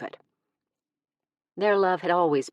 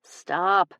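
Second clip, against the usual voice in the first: 1 begging; 4 semitones higher, 3 dB louder than usual. Acted. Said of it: "she begged".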